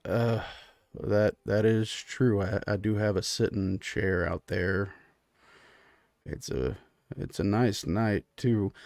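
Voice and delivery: low, soft, slow concession; browbeaten husband. Acted. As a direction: agree haltingly, making the best of it. Clyde accepts eating outside.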